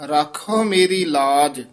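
ਲਾਜ ਤੇ ਠਮਕ; catch after ਲਾਜ. Shown as a demonstration. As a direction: stop briefly on ਲਾਜ before going on. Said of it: "ਠਮਕ ਲਾ ਦੇਣੀ ਹੈ".

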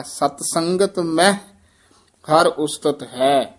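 ਮਹਿ said as "meh", then a pause; careful pronunciation. Shown as a demonstration. Teacher models the verse for learners, ਮਹਿ as one syllable "meh". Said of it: "ਮਹਿ ਸ਼ਬਦ ਉਚਾਰਨ ਕਰਨਾ ਹੈ".

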